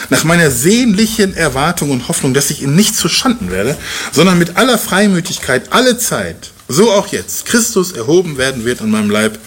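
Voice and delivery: measured, solemn reading of scripture. Acted. Preacher reads Paul's letter to the church, solemn and measured. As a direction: read Paul's letter with weight. Reads the Bible passage aloud.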